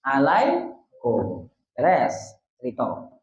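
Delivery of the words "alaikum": slow demo of Alaikum, stretched vowels; drawn-out alaikum. Shown as a demonstration. Teacher demonstrates Alaikum slowly to class. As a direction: spell out Alaikum slowly for students. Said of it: "Satu saja domirnya untuk kalian".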